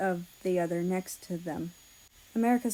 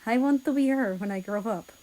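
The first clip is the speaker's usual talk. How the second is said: put-on a little girl's eager, higher, louder cry; bubbling over like a child with a dream; excited little girl; 4 semitones higher, 5 dB louder than usual. Russia quoting the dying girl's wish, childlike and eager. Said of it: "her immediate reaction was".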